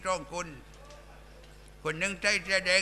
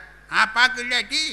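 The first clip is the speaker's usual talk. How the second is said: army doctor's order; 3 semitones higher, 6 dB louder, slower than usual. Retold or imitated. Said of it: "บอกว่า".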